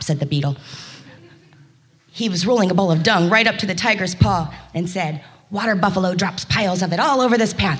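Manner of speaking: a hurried beetle who can't stop; clicking beetle. Acted. Busy beetle rolling dung.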